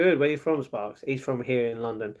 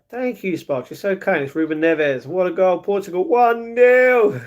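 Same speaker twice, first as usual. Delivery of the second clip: drawn-out goal call, much higher and louder at the end; hammed-up sports commentary building to a slow roaring finish; mock football commentator; 6 semitones higher, 6 dB louder, slower than usual. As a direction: belt it out like a TV commentator calling a goal. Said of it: "Matt would be the most ridiculous commentator".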